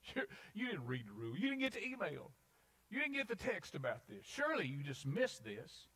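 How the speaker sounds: giving them a way out; mock diplomacy. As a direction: lightly imitate a diplomatic king making excuses. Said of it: "He starts with diplomacy".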